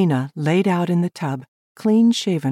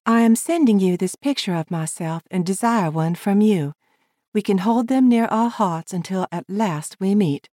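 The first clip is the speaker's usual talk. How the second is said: higher woman's voice, formal; Lavina reading her letter; 4 semitones higher than usual. Acted. Lavina reading her reply to Ted, higher and formal. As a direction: read a polite letter aloud.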